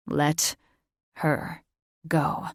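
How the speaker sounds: steady, low and measured; calm him down, slow and level; even. Acted. Thaddeus calmly tells Catherine to release the girl. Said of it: "he said evenly".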